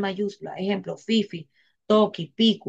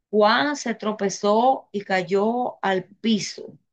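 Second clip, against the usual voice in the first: very slow, drawn-out example sentence; slow dictation; much slower than usual. Shown as a demonstration. Teacher giving the class an example sentence to follow, slow dictation. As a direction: spell it out slowly, word by word.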